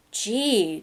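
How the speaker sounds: said softly, just above a breath; a soft, hushed gee; quietly, under his breath. Acted. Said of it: "Johnny said softly".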